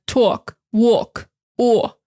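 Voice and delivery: New York "talk", "walk" with long "aw"; New York accent. Shown as a demonstration. Teacher showing the New York "aw" sound. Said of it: "New York is gonna say".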